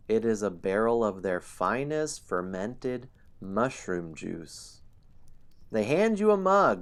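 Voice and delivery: lively, loud storyteller narration; story narration. A narrator's reading. Game master narrating the gnome celebration to players, lively. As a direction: paint the gnome scene for players.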